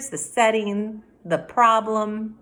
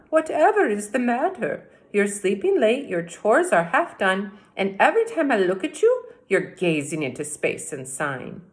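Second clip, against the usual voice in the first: put-on old witch scolding; 3 semitones higher, 4 dB louder than usual. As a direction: fuss at him like a fond old witch. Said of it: "said Stregonona".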